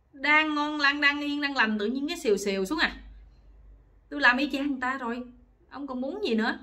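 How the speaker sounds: acted-out indignant protest; angry wife. Wife scolds husband after copying exactly what he liked, angry. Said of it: "bà giận tím mặt luôn".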